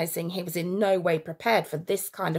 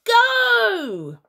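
high, loud command; boy urging his friend on; urgent shout; 7 dB louder than usual. A narrator's reading. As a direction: bark the signal. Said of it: "he shouted".

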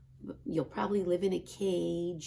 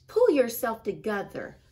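higher, louder big-sister scolding; big sister Ruby; 5 semitones higher, 6 dB louder than usual. A narrator's reading. Ruby scolding Max to pull himself together, higher and louder. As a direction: tell him off like a know-it-all sister. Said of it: "said Ruby".

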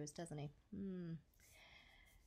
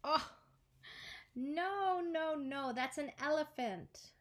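monkey protests; 5 semitones higher than usual. Acted.

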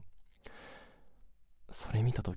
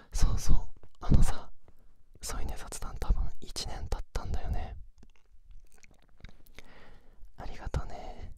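pillow talk; 5 dB louder than usual. Acted. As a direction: murmur intimately as if lying beside them. Sleep-together chat whispered throughout.

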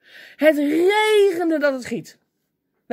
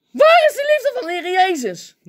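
high, raised-voice indignant demand; indignant outcry; 6 semitones higher, 3 dB louder than usual. Retold or imitated. Preacher thinks of grumpy churchgoers, cries out indignantly. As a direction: cry it out in exasperation.

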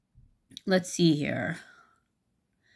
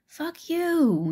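high mock-angry snap, much higher; angry retort; 12 semitones higher than usual. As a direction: fire it back at the bully. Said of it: "the other girl goes".

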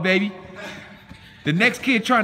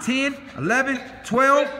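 counting workout reps; 4 semitones higher than usual. Real, not acted. Coach counting reps aloud.

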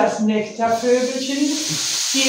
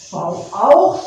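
advice; 8 dB louder than usual. Acted. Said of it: "sagte der Webervogel".

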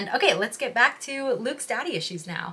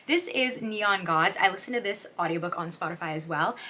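ordinary talk

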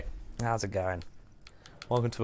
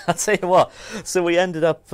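touch of Scottish; 7 semitones higher, 6 dB louder than usual. Pretend. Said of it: "don't break out your accent".

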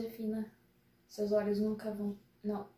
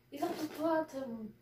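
slow, higher drawn-out meme quote; 4 semitones higher, slower than usual. Retold or imitated. Quoting the hippo meme, lightly imitated and slow. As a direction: stretch it like the hippo meme lady. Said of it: "o meme da mulher daquela hipopótamo".

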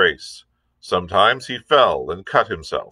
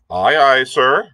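louder, higher hearty aye aye; sailor's reply; 5 semitones higher, 5 dB louder than usual. A narrator's reading. Cook answers the captain with a loud hearty aye aye. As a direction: sing out like an eager seaman. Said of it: "answered the cook".

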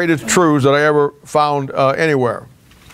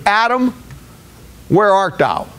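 God calling Adam; 3 semitones higher than usual. Retold or imitated. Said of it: "the question there was".

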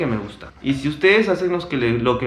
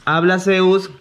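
talking to a dog; 5 semitones higher, slower than usual. Real, not acted. Asking dog to speak.

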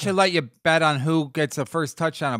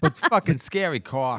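put-on Boston accent. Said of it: "you guys doing a Boston accent".

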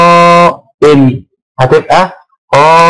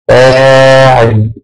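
drawn-out pattern word; 3 semitones lower, much slower than usual. Shown as a demonstration. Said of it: "teacher demos the pattern word".

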